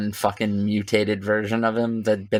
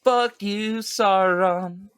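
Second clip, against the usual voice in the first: defiant shout; 10 semitones higher, much slower than usual. Pretend. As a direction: scream it up at the dark lord.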